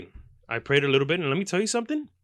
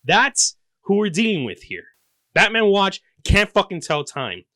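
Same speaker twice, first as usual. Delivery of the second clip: higher, louder exasperated rant; indignant yell; 6 semitones higher, 4 dB louder than usual. Acted. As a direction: spit out the contempt.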